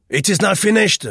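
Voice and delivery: loud, high irritated retort; irritably. A narrator's reading. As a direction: snap back in annoyance. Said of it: "he said irritably".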